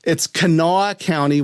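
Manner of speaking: Kanawha said kuh-NAW; local pronunciation. Shown as a demonstration. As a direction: Kanawha with stress on the second syllable, kuh-NAW-uh. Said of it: "you know it's pronounced Kanawha".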